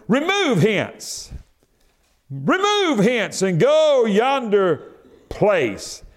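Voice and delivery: commanding mountain. Acted. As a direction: order the mountain to move, slowly.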